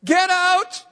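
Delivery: a hammed-up pastor snapping at a friend; mock pastoral voice. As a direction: fling out the words as a gruff pastor would. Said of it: "I said in my best pastoral voice".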